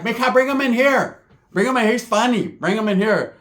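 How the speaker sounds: high aunt calling. Retold or imitated. Aunt calling Sheila to bring him in, high. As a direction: call the girl in, high and delighted. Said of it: "My tia's like".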